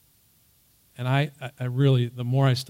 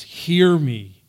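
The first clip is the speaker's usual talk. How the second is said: louder appeal to the Lord; crying out; 2 semitones higher, 7 dB louder than usual. Retold or imitated. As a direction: call it out as a plea. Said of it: "it's got an exclamation point".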